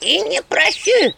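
high slow loud refusal; stubborn refusal. Acted. House spirit refusing again. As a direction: refuse flatly.

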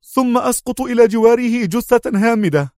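high sharp outcry; sharp exclamation. A narrator's reading. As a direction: burst out in alarm. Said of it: "هتف جونز في حدة".

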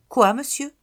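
high, loud startled question; surprised. Acted. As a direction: gasp it out, eager to know. Child startled by news. (surprise vive, voix aiguë)

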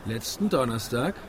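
low, rising disbelieving echo; incredulous echo. Acted. Husband echoes his wife's words, stunned. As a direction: repeat it in disbelief.

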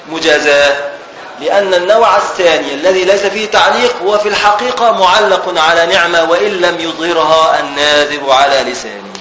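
classical Arabic read aloud from a book; formal text reading. Real, not acted. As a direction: read out the scholarly commentary with full endings. Reads the commentary text aloud. (قراءة متن بالفصحى)

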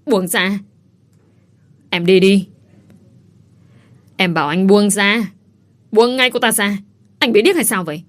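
angry wife ordering husband to release Mai; angry demand. Acted. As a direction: snap at him to let her go. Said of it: "Hà Vi tức giận".

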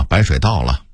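"把"念成"白"; 北京腔说"白水倒了"; Beijing pronunciation. Shown as a demonstration. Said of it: "北京人念百". (北京话变音念"白")

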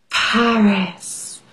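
breathy awed whisper of the word; hushed, dreamy whisper. Acted. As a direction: whisper it like a secret. Whispering the fancy city name.

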